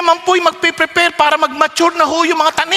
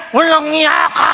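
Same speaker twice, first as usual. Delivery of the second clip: mock pushing yell. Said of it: "pasigaw ng piga".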